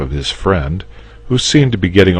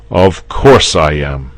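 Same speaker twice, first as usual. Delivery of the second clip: slow, louder, assured; no doubt at all; confident; 7 dB louder than usual. Acted. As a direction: knight assuring the nervous dragon. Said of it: "said Saint George with confidence".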